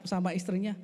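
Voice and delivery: ordinary talk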